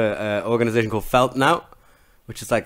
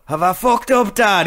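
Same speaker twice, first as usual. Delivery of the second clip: higher, louder mock question; imitated son asking the dad, higher pitch; mock sheepish Paul; 10 semitones higher, 6 dB louder, slower than usual. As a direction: ask the dad like a guilty son.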